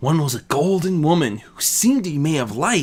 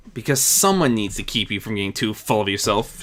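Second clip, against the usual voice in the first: flat; 3 semitones lower than usual. Acted. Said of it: "she answered flatly".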